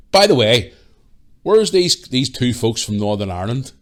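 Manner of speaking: big retold holler; imitated calling out. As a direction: call out like an actor seeking guests. Actor calling out for visitors.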